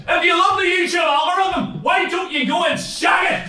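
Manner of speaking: high-pitched, hammed-up gleeful taunt; mock laughing taunt. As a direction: pitch it up like a gloating punchline. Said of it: "I throw it in laughing like".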